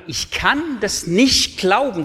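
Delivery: a hint of Thomas refusing to believe; Thomas doubting. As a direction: state it plainly like doubting Thomas. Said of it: "Der Thomas sagt sogar zweimal".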